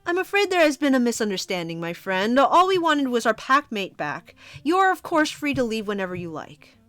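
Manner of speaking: composed, polite pack leader; smooth alpha. Acted. Streamer voicing the pack leader refusing calmly.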